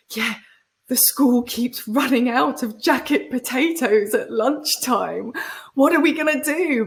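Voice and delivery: high, fretful gossiping mum voice, mocking; hammed-up school-gate mum in a panic; mock panicky mums. Mimicking mums panicking over potatoes.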